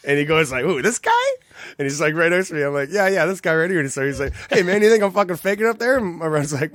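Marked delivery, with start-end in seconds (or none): 0.6-1.1 indignant. Retold or imitated. Singer confronting teller's friend. 2.9-3.8 eager. Retold or imitated. Teller pointing out his friend. 4.5-6.0 angry challenge. Retold or imitated. Angry singer confronting friend.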